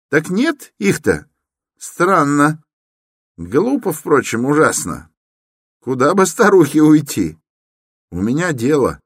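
high, fussy grumbling; puzzled Koch. Acted. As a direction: mutter at the locked door, baffled. Koch puzzled at locked door.

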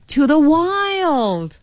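high, long-drawn cry of longing; slow, high-pitched dramatic announcement; Marty. Acted. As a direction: stretch "wild" out high, then let it fall. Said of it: "Marty就说".

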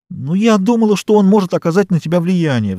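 high, imploring mother; a mother pleading with her stubborn daughter. Acted. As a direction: beg her daughter to listen. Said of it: "взмолилась миссис Дейл".

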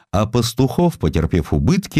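ordinary talk

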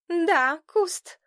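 knowing, loaded tone; meaningfully. A narrator's reading. Zhenka hinting at the boy, meaningful and knowing. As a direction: let the name hang with meaning. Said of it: "многозначительно сказала Женька".

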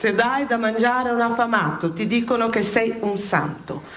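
preaching a sermon with rising fervour; impassioned sermon. Acted. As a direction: preach it, building to a cry of outrage.

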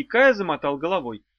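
usual speaking voice

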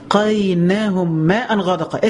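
slow drawn-out chant; slow tajweed recitation; Quran recitation. Acted. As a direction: intone each word slowly.

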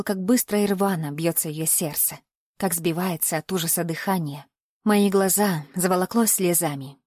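ordinary delivery, nothing marked

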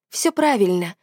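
plain reading voice

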